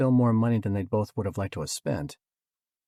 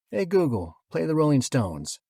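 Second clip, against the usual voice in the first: calling out; 7 semitones higher, 5 dB louder than usual. A narrator's reading. Man calls out to speaker.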